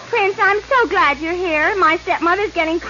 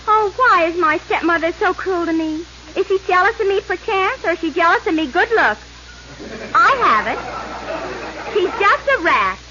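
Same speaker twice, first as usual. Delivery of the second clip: melodramatic heroine voice. Acted. Snow White laments in parody.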